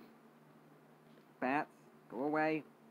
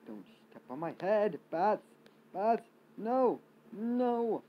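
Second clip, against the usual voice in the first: high frantic yelling; panicked shout; 8 semitones higher, 8 dB louder, much slower than usual. Real, not acted. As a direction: scream it in panic. Swarmed by enemies.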